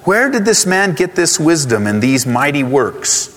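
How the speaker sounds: slow, incredulous townsfolk asking; astonished. Retold or imitated. Preacher voicing the hometown crowd, mildly astonished. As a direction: scoff a little as doubting neighbors. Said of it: "they were astonished and said".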